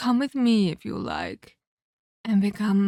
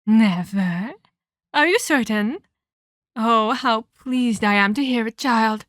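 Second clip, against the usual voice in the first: mock delight; 5 dB louder than usual. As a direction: feign delight at the refusal. Villain reacts to refusal.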